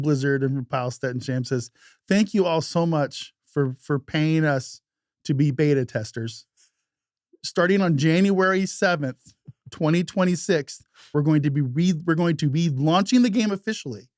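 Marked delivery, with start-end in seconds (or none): 2.1-14.1 slow, lifted corporate announcement voice; mock official announcement. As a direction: read it like a stiff dev statement. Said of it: "get a message that says".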